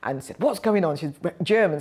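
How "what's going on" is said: robust matron. Retold or imitated. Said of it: "very robust and".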